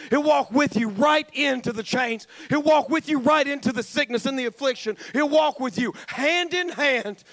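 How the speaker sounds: rising preacher's cadence, building; fervent Southern sermon build; preaching. Acted. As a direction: preach it, building with each line. Preaching at full force.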